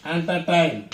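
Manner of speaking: entertain with weight on TAIN; teacher's careful demo of entertain; stress on third syllable. Shown as a demonstration. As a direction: lean on the last syllable of entertain. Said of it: "Stress on third syllable".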